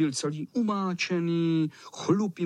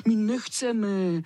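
put-on higher, slow frightened kids; boys whimpering; 6 semitones higher, 3 dB louder, slower than usual. A narrator's reading. Scared boys beg the cat, mild crying. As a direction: plead tearfully. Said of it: "plakali kluci".

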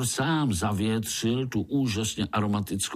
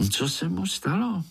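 curious little spider; 10 semitones higher than usual. A narrator's reading. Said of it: "zeptal se Pája".

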